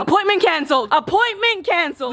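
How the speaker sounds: high-pitched outraged exclamation. Real, not acted. Customer reading the cancellation on the phone, outraged cry.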